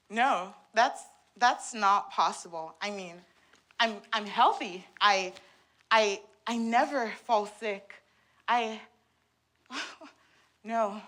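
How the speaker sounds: stammering, protesting disbelief; distressed denial. Acted. Patient told of serious mental illness, stammering denial. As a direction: trip over the words while refusing to accept it.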